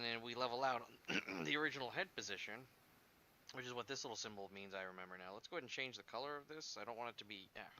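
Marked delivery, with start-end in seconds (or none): 5.3-7.7 talking around a pen in mouth; pen clamped between the teeth. Real, not acted. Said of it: "Hey, pen in my mouth".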